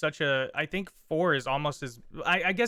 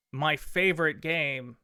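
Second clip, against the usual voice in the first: sarcastic; 2 semitones higher than usual. Pretend. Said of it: "That was pure sarcasm".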